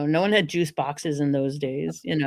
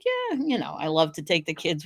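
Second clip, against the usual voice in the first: acting nonchalant; 4 dB quieter than usual. Mom pretending the ordeal is no big deal. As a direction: wave it off lightly. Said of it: "she acted like".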